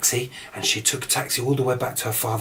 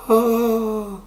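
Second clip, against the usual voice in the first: much higher, louder startled oh; waking with a fright; startled gasp; 11 semitones higher, 5 dB louder than usual. A narrator's reading. Beauty wakes from a dream.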